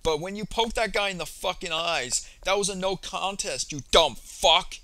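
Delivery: imitating an aggressive jab, building to a loud final insult; mock pissed-off taunt ending in a shout; retelling a pissed-off taunt with a loud last insult. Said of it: "He said it like that. He said it with so much aggression".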